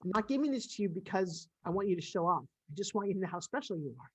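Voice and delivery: softly tearful retelling of tender words; tearful, choked up. Real, not acted. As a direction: quote your daughter while holding back tears. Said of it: "now that I'm crying".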